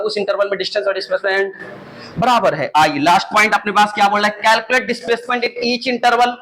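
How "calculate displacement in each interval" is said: slow read-aloud. Shown as a demonstration. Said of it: "reading the slide slowly".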